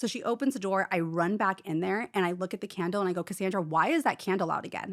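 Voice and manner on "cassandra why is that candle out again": mock-stern, angry tone. Retelling how they confronted cassandra, acting out a stern, angry question. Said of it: "I'm pissed. Like, I'm stern".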